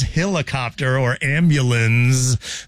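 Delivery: helicopter as "hillacopter", ambulance as "am-byuh-lunz"; mimicked quirky helicopter and ambulance; Woody. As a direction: imitate hillacopter and a drawn-out ambulance. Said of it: "that's a Woodyism".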